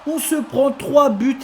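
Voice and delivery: high, loud goal call; excited sports commentary. Acted.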